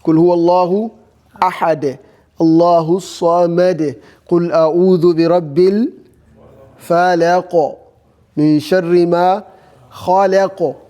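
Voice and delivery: quick chanted Quran recitation; teacher reciting a verse to show the stop. Shown as a demonstration. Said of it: "this is how to, you know, give you your answer".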